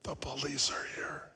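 put-on soft whispered child voice; child's whisper. Boy whispers that the police are there. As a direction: whisper it like a hiding kid. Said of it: "Still whispering".

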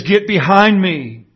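slow, firm quoted command; retold command, drawn out for emphasis; emphatic rebuke. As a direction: deliver the rebuke slowly and with force. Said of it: "Jesus responds emphatically, equally emphatically".

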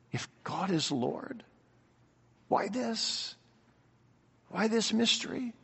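very soft, halting wondering; hushed questioning. Acted. Believer when things crash in from all sides, hushed questioning. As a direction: ask it barely aloud, with pauses. Voicing a struggler's private doubt.

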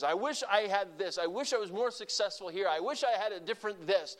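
put-on discontented wishing; mock complaining. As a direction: imitate someone griping, pitch climbing at the end. Mimics people wishing circumstances were different.

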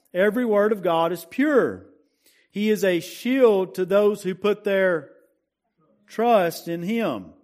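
preached scripture recitation. Acted. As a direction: proclaim the verse to the congregation. Reciting memory verses to congregation.

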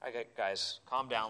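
easy and unbothered, settling the guys; calm. Acted. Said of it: "Jesus calmly gets up".

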